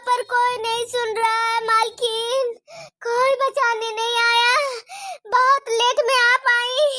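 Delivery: tearful plea. Acted. Victim tells of beating.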